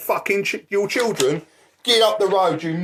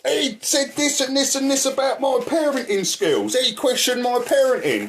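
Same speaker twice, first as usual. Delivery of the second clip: mocking imitation of her; 6 semitones higher than usual. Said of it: "She's going".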